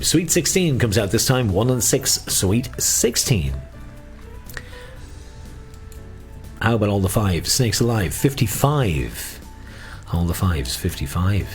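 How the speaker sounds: sing-song number calling; bingo caller. Acted. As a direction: lilt each number like a bingo hall.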